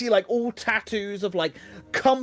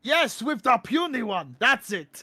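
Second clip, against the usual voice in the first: hearty brute in broken speech, swooping in pitch; animated minotaur voice, emphatic then easing; jovial minotaur. Acted. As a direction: welcome them like a pleased hulking monster. Plays the minotaur.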